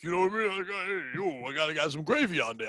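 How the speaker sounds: hammed-up Italian-American wiseguy; Italian mobster voice. Riffing on steaks as a mafia guy, Italian accent. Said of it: "I don't do the other Italian voice".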